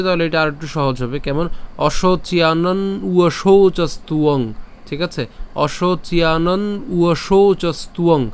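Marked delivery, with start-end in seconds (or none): 1.8-4.4 "অশোচিয়ানন উয়শৌচস্তুয়ং" in one slow, connected flow; said joined together. Shown as a demonstration. Teacher showing the easier joined way, slow connected recitation. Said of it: "একত্রে যদি উচ্চারণ করি". 5.7-8.2 "অশোচিয়ানন উয়শৌচস্তুয়ং" linked in one slow breath; said joined together. Shown as a demonstration. Teacher repeating the joined way, slow unbroken recitation. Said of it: "একত্রে যদি উচ্চারণ করি".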